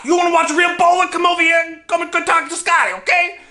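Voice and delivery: put-on bratty kid taunting a teammate; yelled insults. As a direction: yell it to put him down. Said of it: "yell things at me to kind of put me down".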